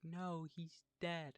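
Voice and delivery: high, slow, drawn-out mock grief; mock wail. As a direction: stretch it out like fake mourning. Everyone mourns exploding hero.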